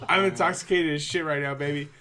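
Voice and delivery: put-on loud, slurred drunk brag; sloppy tipsy boasting. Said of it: "I just really like to do a very drunk voice".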